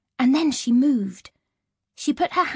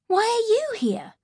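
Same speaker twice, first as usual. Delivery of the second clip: astonished question; 10 semitones higher than usual. Acted. Shocked to see teacher.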